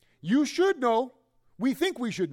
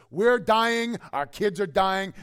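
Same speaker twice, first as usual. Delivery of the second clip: louder, whiny mock wail of dying people; mock guilt trip; 5 dB louder, slower than usual. Grumbling Israelites wailing at Moses, mock guilt trip.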